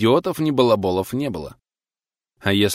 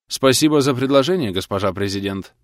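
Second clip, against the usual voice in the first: heartfelt; 2 semitones higher, 3 dB louder than usual. Acted. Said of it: "проникновенно начал Стакал".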